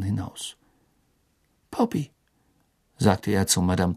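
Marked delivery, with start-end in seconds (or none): 1.7-2.1 put-on high, slow, gentle old wizard; lightly voiced kind old headmaster; Dumbledore voice. A narrator's reading.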